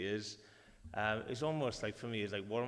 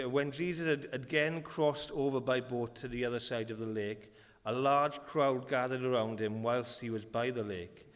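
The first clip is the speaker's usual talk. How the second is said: lightly raised scripture reading. Acted. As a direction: read the passage to the church. Reads scripture aloud.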